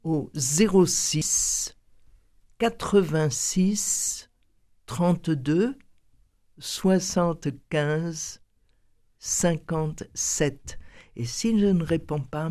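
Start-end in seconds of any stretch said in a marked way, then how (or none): 0.0-10.8 slow, spaced phone number; slow dictation. Shown as a demonstration. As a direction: read each pair slowly, with pauses. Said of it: "vous pouvez aussi me téléphoner directement". (numéro dicté lentement)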